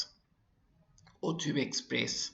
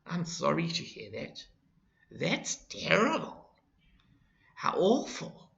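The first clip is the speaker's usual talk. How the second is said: sad; 3 semitones higher than usual. Shown as a demonstration. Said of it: "three phrases that express sadness".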